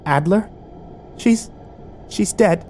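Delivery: high, halting answer; frightened. A narrator's reading. Emma held at gunpoint, frightened. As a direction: break the news haltingly, in a small high voice.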